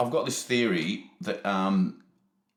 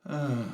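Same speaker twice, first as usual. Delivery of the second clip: imitated traffic sigh; 2 semitones higher, 4 dB quieter than usual. Asking how traffic sighs, imitated sigh. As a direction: let out a small "ugh" like tired traffic. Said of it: "you can hear the traffic sigh".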